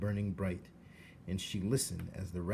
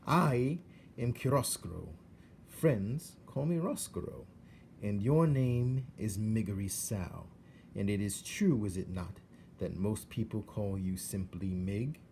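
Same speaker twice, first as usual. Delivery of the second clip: suave rat. Acted. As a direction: introduce yourself with silky charm. Roscoe introduces himself.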